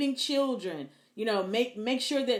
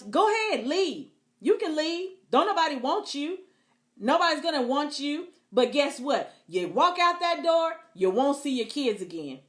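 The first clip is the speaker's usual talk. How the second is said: taunting threat; 3 semitones higher than usual. Retold or imitated. Voicing a threatening abusive spouse.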